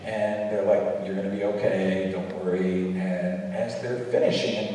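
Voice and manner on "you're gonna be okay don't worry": mildly soothing, low doctor's voice; reassuring. Retold or imitated. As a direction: softly reassure the patient, pitched low. Doctors reassuring patient in retold story.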